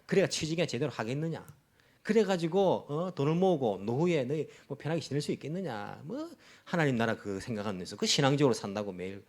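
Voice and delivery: mildly mocking scoff; belittling. Worldly people looking down on a believer, mildly scornful. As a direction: talk down to a believer. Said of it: "깔봅니다".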